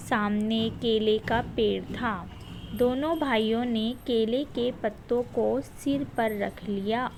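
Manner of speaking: put-on slow, careful read-aloud for children; measured storybook reading for pupils; reading a passage aloud. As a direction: read it slowly so the class can follow. Teacher reads passage aloud.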